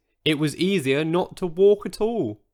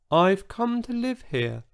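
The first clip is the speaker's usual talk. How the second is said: tiny voice; 6 semitones higher than usual. Acted. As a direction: shrink the voice down to a tiny one. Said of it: "in a voice so tiny".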